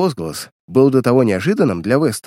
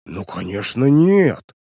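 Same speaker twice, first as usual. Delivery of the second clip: offended innocence; slower than usual. A narrator's reading. Uncle denying the theft charge, in offended innocence. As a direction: protest as if wounded by the accusation. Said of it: "Тоном оскорблённой невинности выпалил Вестон".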